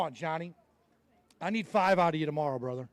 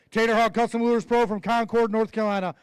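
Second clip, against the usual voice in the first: announcer intro; 4 dB louder than usual. Acted. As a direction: stretch the name out for the crowd. Introduces angler at weigh-in.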